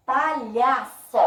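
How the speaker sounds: "Palhaço" slow and loud, LHA strong; stressed middle syllable. Shown as a demonstration. Teacher demonstrating the strongest syllable, slow "Palhaço" with stressed LHA. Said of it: "que foi mais forte".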